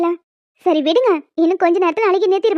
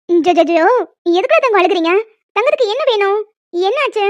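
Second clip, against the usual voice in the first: put-on lilting baby-soothing talk; cooing to baby. Mother asks her crying baby what is wrong, cooing. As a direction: hush and coax the crying little one.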